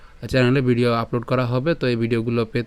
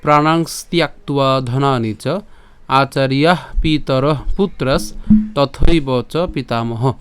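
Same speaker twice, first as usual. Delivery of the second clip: slow, measured chanting of the verse; slow shloka recitation; 4 dB louder, slower than usual. Shown as a demonstration. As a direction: recite the Sanskrit verse slowly, syllable by syllable. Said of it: "তো শ্লোকটি হচ্ছে". (ধীর লয়ে শ্লোক পাঠ)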